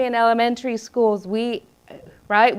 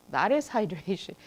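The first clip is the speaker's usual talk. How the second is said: whispered aside; 3 semitones lower, 8 dB quieter than usual. Retold or imitated. Mocking her own confused reaction.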